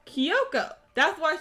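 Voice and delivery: loud, eager reply; excited answer. Real, not acted. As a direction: shout the answer happily. Answering her own question.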